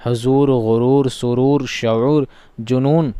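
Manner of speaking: "हुजूर, गुरूर, सुरूर" with a long oo, run together as a list. Shown as a demonstration. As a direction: hold the oo in "हुजूर" through "जुनून". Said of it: "वाव को खींच कर पढ़ते हैं".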